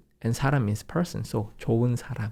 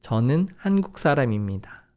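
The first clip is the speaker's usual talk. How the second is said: fast; much faster than usual. Shown as a demonstration. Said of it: "One more time".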